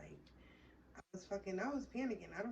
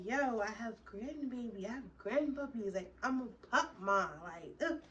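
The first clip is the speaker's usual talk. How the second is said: higher, louder proud gushing; giddy proud gush, raised and loud; excited; 4 semitones higher, 5 dB louder than usual. Retold or imitated. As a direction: brag like a brand-new grandma. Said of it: "I'm so excited".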